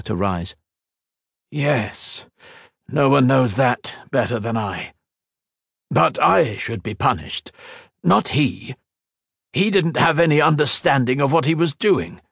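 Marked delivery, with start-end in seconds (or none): 1.5-12.2 higher, earnest plea; remorseful scientist. A narrator's reading. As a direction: take the blame yourself. Tamar pleading guilt.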